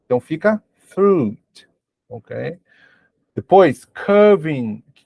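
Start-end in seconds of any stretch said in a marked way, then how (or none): 0.8-1.7 fruit said as one syllable, silent I, long U; careful English pronunciation. Shown as a demonstration. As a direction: stretch the U in fruit and drop the I. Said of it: "você estende um pouquinho o U".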